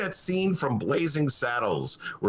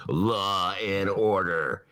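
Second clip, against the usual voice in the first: mock Trump slogan; 5 semitones lower, much slower than usual. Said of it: "I know what Donnie's gonna say".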